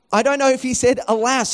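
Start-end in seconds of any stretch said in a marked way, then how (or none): 1.1-1.5 "Alas" in a put-on, mock-dramatic voice; mock-archaic alas. Shown as a demonstration. Preacher mocking the servant's quaint cry, mock-dramatic. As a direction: poke fun at the old word "Alas". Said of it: "Who says, "Alas"?".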